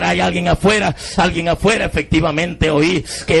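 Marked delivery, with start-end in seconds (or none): 0.0-1.8 retold shout. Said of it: "empecé a gritar".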